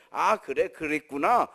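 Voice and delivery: stock empathetic reply with a lifted ending; mock understanding parent. Shown as a demonstration. Parent accepting a child's words by formula, imitated empathy. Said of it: "꼭 이렇게 할 필요 없어".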